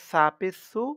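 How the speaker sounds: "সু" with tongue tip between the teeth, like English th; tongue slightly out. Shown as a demonstration. Teacher showing learners the letter, "সু" with tongue slightly out. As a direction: push the tongue slightly out on "সা পেশ সু". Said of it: "জিহ্বাটা একটু বাহিরের দিকে এনে".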